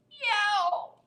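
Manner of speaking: high meow; cat meow. Acted. Reader voicing the grateful cat, high meow. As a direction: mew it gratefully.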